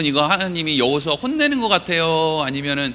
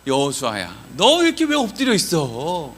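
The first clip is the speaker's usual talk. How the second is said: gentle calling. Acted. God calling fallen Joshua without blame, gentle concern. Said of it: "이렇게 하는 게 아니라".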